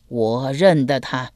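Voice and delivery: a hint of a doddering old master; lightly voiced old man. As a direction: speak slow as a frail elder. Frail old man speaks.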